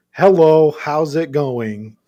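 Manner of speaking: hammed-up bad foreigner's accent in Hebrew, loud opening; mock terrible accent. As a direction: imitate your own clumsy accent, starting loud. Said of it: "I sound like ... it's terrible".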